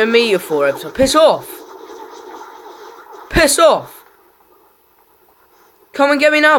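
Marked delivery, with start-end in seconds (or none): 0.9-4.0 bellowed high and loud; furious shout. Real, not acted. Gamer raging at opponent. 5.9-6.6 high, loud challenge; taunting yell. Real, not acted. Gamer taunting opponent.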